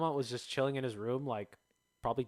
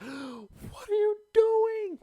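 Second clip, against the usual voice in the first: drawn-out, high shocked yell; shocked shout; 6 dB louder, much slower than usual. Retold or imitated. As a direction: shout it out in disbelief. Catching girls wrecking igloo.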